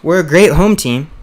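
talking through a burp; burp-choked, stuttered words. Real, not acted. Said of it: "Sorry, I'm burping a lot".

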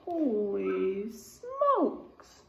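slow, drawn-out amazement; amazed. Real, not acted. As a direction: marvel at the size, stretching it out. Teacher marvels at bear paw size.

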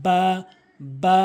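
Arabic বা, held with a fronted vowel; correct বা. Shown as a demonstration. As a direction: press both lips together, then lengthen বা. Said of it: "বা হরফটি উচ্চারণ করবেন".

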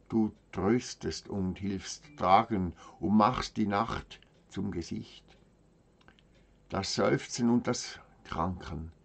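measured verse reading with long pauses between lines; solemn poem recitation. Acted. Reading brethren a poem from mother, measured solemn recitation. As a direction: recite it as a devout prayer in verse, line by line.

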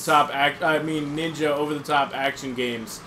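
sneering hipster voice; dismissive, unimpressed gamer; snobby contrarian. Retold or imitated. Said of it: "People that are like".

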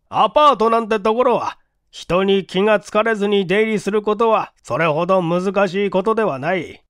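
a questioning detective, lightly voiced; police inspector voice. The inspector grilling the building clerk, in a stern questioning voice.

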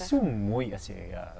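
put-on light Afrikaans accent in speech; Afrikaans-accented, speaking Afrikaans. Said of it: "my tiny Afrikaans accent".

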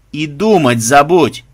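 loud, drawn-out protest; mildly frightened, emphatic objection; alarmed refusal. Acted. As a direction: forbid it slowly and forcefully. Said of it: "испуганно замахал руками Банзай".

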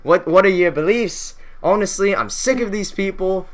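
lightly acted newcomer at a protest. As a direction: pitch it up and introduce yourself to the crowd. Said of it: "He's like".

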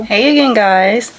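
talking while chewing gum. Real, not acted. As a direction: speak around a piece of gum. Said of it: "I'm chewing gum".

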